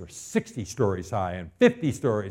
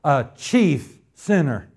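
confessing sinner cry; 8 semitones higher, 8 dB louder, much slower than usual. Retold or imitated. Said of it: "And so then you say".

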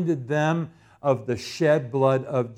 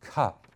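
"Cup" alone, low and deliberate; isolated, low-pitched "Cup" with silence around it; emphasis on cup; 3 semitones lower, 3 dB quieter than usual. Shown as a demonstration. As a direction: set "Cup" apart as a single weighty word. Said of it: "I wanna emphasize the word cup".

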